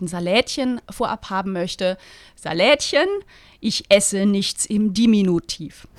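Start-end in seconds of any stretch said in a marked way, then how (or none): 2.3-5.9 deadpan, clipped at the end; dry as bread, unimpressed; dry retort. Acted. Author reading her favourite character's retort to the cook, deadpan. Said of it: "die sagt so Sachen wie".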